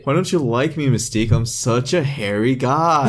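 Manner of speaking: mock-pleading, dragged out at the end; hammed-up self-pitying suitor; Beast, weird creeper. Beast pleading with Mystique over his looks, mock-whiny creeper. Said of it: "Like Beast being, like, a weird creeper".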